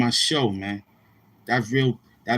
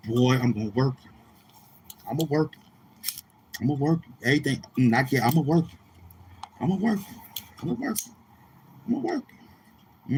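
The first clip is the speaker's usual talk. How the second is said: rising taunt; 5 dB quieter, faster than usual. Acted. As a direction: tease him, pitch creeping up toward a squeak. Repeated taunt climbing in pitch.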